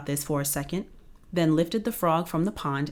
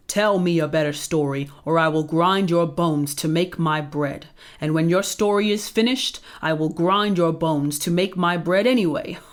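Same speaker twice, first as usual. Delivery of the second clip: menacing giant; 4 dB louder than usual. Acted. Giant threatens squeezing Jack.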